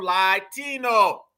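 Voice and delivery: "Latino" said slowly as "LIE-tino"; punning pronunciation. Shown as a demonstration. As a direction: stretch the first syllable of "Latino" into "lie". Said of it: "this is why we use the term".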